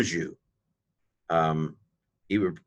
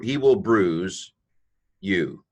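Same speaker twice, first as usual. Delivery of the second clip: "he will bruise" drawn out word by word; slow, deliberate reading; much slower than usual. Shown as a demonstration. Teacher slowly reads the Hebrew for the class. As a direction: spell it out slowly for students. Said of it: "So he".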